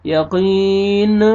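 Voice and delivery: "यक़ीन" with an "uh" released after the N; faulty "yaqeen-uh" ending; wrong bounced noon. Shown as a demonstration. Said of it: "ऐसे नहीं पढ़ना".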